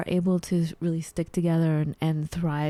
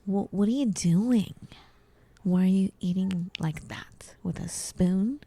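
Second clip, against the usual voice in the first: mock judgmental guest. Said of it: "make a weird face and go".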